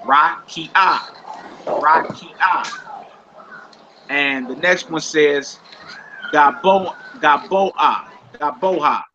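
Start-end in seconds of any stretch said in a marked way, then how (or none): 0.0-2.8 "Rakia" with the beat on the middle "ki"; teacher's demo of "Rakia", middle syllable stressed. Shown as a demonstration. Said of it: "It's stressed on ki". 6.3-9.0 "Gaboha" with the "bo" leaned on; stress on the vowel. Shown as a demonstration. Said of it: "It's stressed on the vowel".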